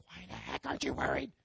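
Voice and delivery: low mock-exasperated wife voice; imitating exasperated wife. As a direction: put on her exasperation, dropped well below your own pitch. Imitating nervous wife challenging him.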